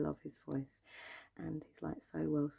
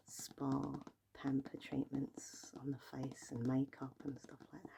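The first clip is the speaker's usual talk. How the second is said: slow whisper. Acted. ASMR whispering description.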